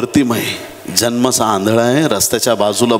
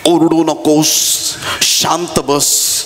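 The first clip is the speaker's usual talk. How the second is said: drawn-out, mildly stern telling-off; mock scolding; 3 semitones higher than usual. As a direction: imitate disciples shushing a beggar, stretching the words. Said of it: "शिष्य बर्तिमाईला दटावतायत".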